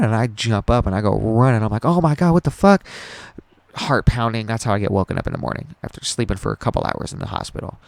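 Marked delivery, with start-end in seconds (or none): 1.8-2.8 higher, louder startled outburst; re-enacted shocked cry; retold panic. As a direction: act out being jolted awake in alarm. Retelling being jolted awake in panic.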